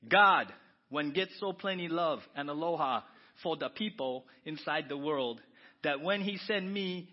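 slow, relaxed Hawaiian Pidgin reading. Acted. To the congregation, reading John 3:16 from the Pidgin Jesus book, Hawaiian Pidgin. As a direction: read it the Hawaiian Pidgin way, unhurried. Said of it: "You wanna hear John three sixteen in Pidgin?".

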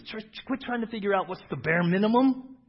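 high, loud exhortation to the church; preacher's shout. Real, not acted. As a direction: call it out over the crowd.

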